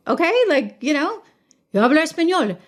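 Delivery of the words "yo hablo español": Spanish phrase in a Spanish accent, pitched up. Shown as a demonstration. Proving to commenters he speaks Spanish, Spanish accent. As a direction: show off a native Spanish accent. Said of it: "I can speak Spanish with a Spanish accent".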